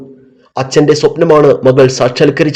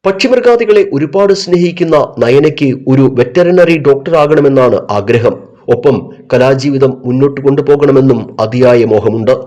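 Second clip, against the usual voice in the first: news feature narration; 2 semitones lower than usual. A narrator's reading.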